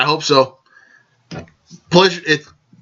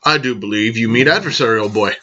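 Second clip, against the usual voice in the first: lower-pitched, lightly put-on English accent; imitated English accent, pitched down; mock English accent; 5 semitones lower than usual. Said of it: "English type accent".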